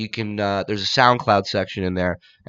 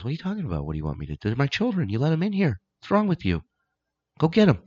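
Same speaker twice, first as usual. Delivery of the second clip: indignant God; 5 semitones higher, 5 dB quieter, faster than usual. Retold or imitated. Comedian voicing God scolding Peter, mock outrage. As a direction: play God scolding Saint Peter, getting more indignant.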